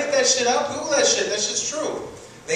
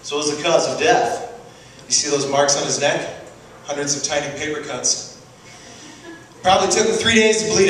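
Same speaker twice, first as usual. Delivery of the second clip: TV detective; 3 semitones lower than usual. Acted. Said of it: "see a scene like this".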